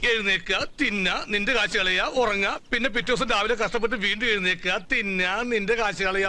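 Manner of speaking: low-pitched recital, item by item; deadpan listing. Acted. Friend listing an idler's daily routine, deadpan. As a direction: recite the routine as a weary list.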